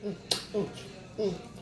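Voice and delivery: low, soft aside to herself; quiet mutter. Real, not acted. Hushing herself while eating, low and soft. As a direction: murmur it under your breath.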